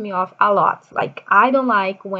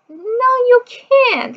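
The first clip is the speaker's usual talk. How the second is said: firm no; 6 dB louder, much slower than usual. Retold or imitated. Mother arguing with kid.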